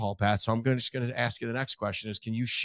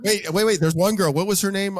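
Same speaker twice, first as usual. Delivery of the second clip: excited interruption; 7 semitones higher, 7 dB louder than usual. Real, not acted.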